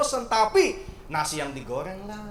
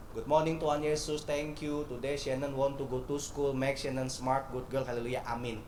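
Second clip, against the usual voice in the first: put-on child's prayer; 4 semitones lower, 7 dB quieter than usual. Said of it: "Doanya simple".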